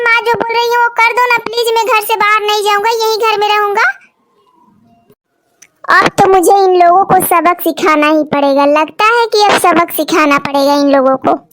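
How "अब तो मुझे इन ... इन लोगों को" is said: low, deliberate scheming aside; resolved, low-pitched musing; plotting aside. Acted. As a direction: lower the voice as if planning a lesson.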